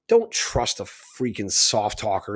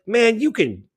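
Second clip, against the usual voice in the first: retold angry retort; 3 semitones higher, slower than usual. Mocked official gets an angry comeback. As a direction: snap back at him, riled. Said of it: "I was pissed when he said that".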